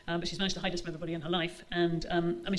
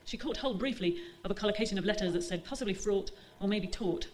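measured reading voice for a novel; story narration. A narrator's reading. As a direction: read the chapter aloud to the audience. Author reads second extract.

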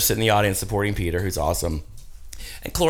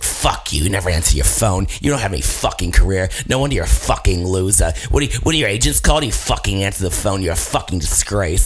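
imitated phone tirade, pitched a little low; mock-angry rant on a voicemail; 3 semitones lower than usual. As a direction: go off on them in mock rage, punching the swearing. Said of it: "went off on me".

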